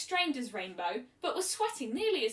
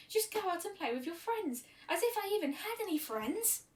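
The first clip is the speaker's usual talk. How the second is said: bitter outburst; 9 semitones higher than usual. Acted. Bitter outburst about her parents.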